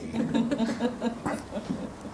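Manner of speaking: a high, breathy laugh at his own yell; real laugh. Real, not acted. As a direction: laugh it off after shouting. Laughs after own scream.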